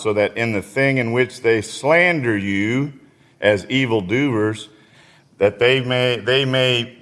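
measured, earnest Bible reading; scripture reading. Acted. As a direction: read the verse to the congregation. Reads scripture aloud.

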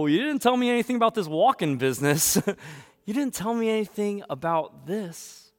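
high-pitched, indignant protest; mock complaining. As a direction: whine about it in comic disbelief. Acts Israelites complaining about walking.

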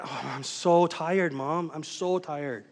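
hammed-up tiredness, stretched slowly; mock weary complaint.

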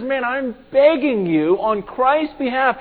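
loud, high, drawn-out plea; Paul. Retold or imitated. Paul begging the crowd for Christ, urgent pleading. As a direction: beg the crowd on someone's behalf.

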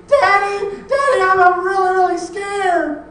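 high, very loud scream for Daddy; child's frightened scream. Acted. Four-year-old waking from nightmare to Daddy, screaming in fear. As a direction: scream it out like a scared little girl. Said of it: "that scream came again".

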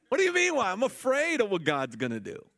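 very high, loud mock Jamaican outburst; hammed-up indignant fear in a Jamaican accent. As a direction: shriek the start as an imitated Jamaican sister. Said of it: "She had a Jamaican accent".

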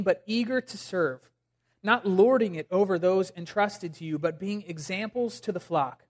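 subdued, evenly phrased reading from scripture. Acted. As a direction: read the passage aloud with quiet reverence. Reads scripture aloud.

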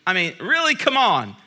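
high, incredulous really; exasperated. Retold or imitated. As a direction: roll your eyes at the honking driver. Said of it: "and I'm like".

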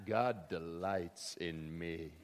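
slow, soft, dreamy murmur of God delights in me; slow, low hush with the weight on God; hushed self-delight. Pretend. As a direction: savour it quietly to yourself. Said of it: "I'm not sure what that was".

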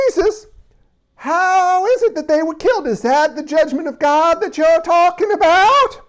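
comic British voice asking Jesus about judgment; mock British accent. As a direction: play the crowd as an overdone Brit. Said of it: "We gotta go back British".

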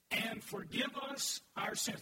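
slow, deliberate unison reading; congregation reading. Shown as a demonstration. Pastor leads the church reading the verse slowly. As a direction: read it out together slowly. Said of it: "Read that with me".

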